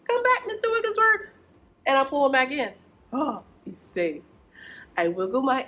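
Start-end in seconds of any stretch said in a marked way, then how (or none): 0.1-1.3 mock alarm. Puppet's nose pops off.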